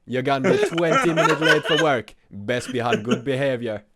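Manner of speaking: put-on Jamaican GPS voice, laughing; mock Jamaican traffic report; Jamaican sat nav. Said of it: "do, like, a sat nav?".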